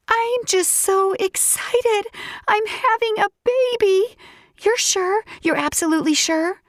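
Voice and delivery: high, giddy, excited voice; overjoyed. Acted. Narrator thrilled about the baby, high and giddy. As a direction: gush with giddy joy.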